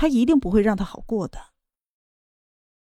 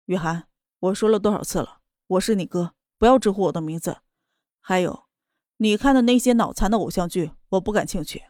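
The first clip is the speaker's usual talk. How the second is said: lower, flat and indifferent; detached and cool; 3 semitones lower than usual. Acted. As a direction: brush her off coolly. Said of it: "淡淡地说道".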